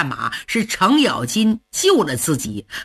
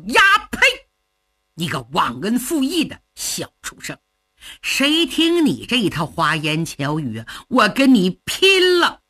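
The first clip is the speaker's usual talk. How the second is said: furious outburst. Acted. Shan Xiongxin curses his sworn brother in fury. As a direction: spit out the insult and charge.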